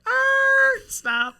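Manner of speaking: high, loud "Er, stop."; shouted stop. Retold or imitated. Interrupting a caller on a coaching call, a sudden high yell. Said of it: "I was like".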